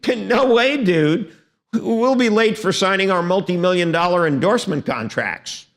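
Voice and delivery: dismissive dude. Retold or imitated. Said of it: "they say".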